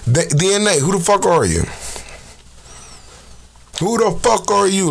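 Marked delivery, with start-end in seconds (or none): 3.8-4.9 higher-pitched mock Polish accent. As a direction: imitate a Polish friend's accent. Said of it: "like my Polish friend says that word".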